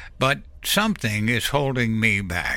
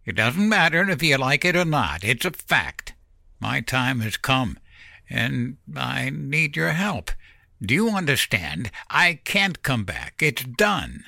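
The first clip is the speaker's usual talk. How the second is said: irritated snap; 5 semitones higher than usual. A narrator's reading. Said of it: "irritated breath and snapped".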